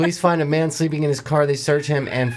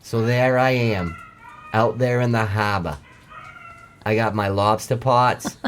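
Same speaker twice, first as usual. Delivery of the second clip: lightly voiced Mainer lobsterman telling his tale; Maine accent. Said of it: "from a Mainer perspective".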